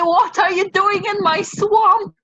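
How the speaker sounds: half-hearted Shrek voice, swamp owner defending his turf; Shrek impression. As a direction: toss off a quick mock ogre line. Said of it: "Shrek references".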